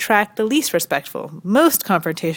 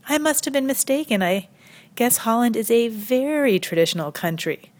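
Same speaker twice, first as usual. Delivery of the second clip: higher-pitched mock apology; sarcastic concession; 4 semitones higher than usual. Comedian pretending to accept the tradition excuse, sarcastic concession.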